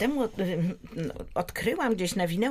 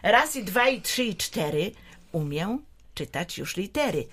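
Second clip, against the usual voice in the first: reciting a rhyme. Acted. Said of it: "mamy taki cudny wierszyk".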